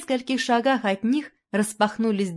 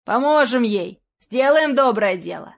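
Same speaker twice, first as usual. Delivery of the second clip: louder rallying call; rallying shout; 3 semitones higher, 5 dB louder than usual. Acted. Reveller rallying friends, loud call. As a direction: rouse the gang to help.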